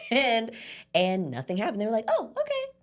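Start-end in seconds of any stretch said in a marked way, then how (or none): 2.1-2.7 high casual oh okay. Retold or imitated. Family voiced in story.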